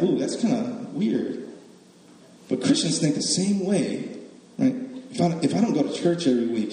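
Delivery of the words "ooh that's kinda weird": mildly weirded out. Retold or imitated. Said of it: "we look at that as like".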